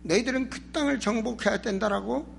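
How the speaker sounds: ordinary talk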